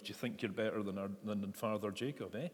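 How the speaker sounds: put-on light, quick Glasgow accent. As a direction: put on a bit of a Glasgow twang. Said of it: "sort of Glasgow accent".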